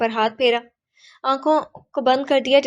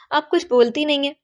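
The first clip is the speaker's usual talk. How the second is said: pressing hard for an answer, pitched up; insistent question; 5 semitones higher than usual. A narrator's reading. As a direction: push the question with force. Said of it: "زور دے کر پوچھا". (زور دے کر پوچھا گیا سوال)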